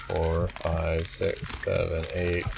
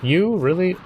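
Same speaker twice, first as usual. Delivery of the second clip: surprised; 7 semitones higher, slower than usual. Real, not acted. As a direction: caught off guard, disbelieving. Spotted by an enemy.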